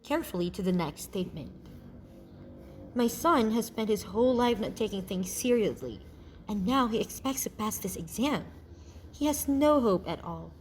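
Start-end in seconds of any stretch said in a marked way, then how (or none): 2.9-10.5 a parent who has given up hope; pessimistic. Acted. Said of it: "The tone of the statement is pessimistic".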